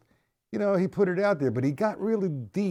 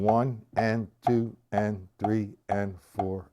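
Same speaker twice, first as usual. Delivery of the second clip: slow counting; 3 semitones lower, slower than usual. Shown as a demonstration. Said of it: "I'm thinking".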